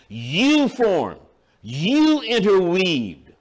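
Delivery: long, weighted "You" each time; slow preacher's emphasis on "you"; emphatic YOU. Acted. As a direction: lean hard on "You", slowing down. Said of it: "it is emphasized".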